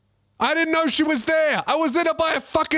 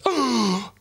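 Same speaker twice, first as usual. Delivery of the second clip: imitated gasp. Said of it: "She goes".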